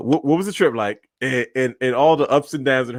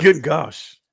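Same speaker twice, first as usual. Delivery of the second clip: breathy whispered disbelief. Real, not acted. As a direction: whisper it in awe. Reacting to long bus ride.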